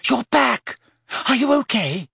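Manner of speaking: high delighted exclamation; excited cry. A narrator's reading. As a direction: call out with joy. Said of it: "until Hermione cried".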